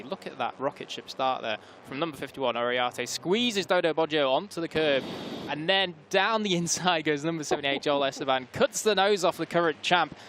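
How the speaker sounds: brisk race commentary read; motorsport commentator. Acted. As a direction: call the race as it happens. Live play-by-play commentary.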